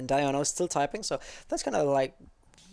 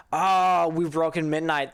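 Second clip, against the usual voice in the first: sudden surprised gasp; 2 semitones higher, 6 dB louder than usual. Real, not acted. Realizes the time passed midnight.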